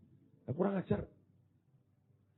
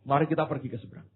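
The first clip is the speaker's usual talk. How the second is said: quick casual quote; 2 semitones lower, 5 dB quieter, much faster than usual. Acted. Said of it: "dia berkata begini".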